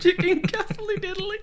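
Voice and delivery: high, giggly repeat; laughing. Real, not acted. Cohost repeating the chicken order, laughing. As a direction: squeaks it out through laughter.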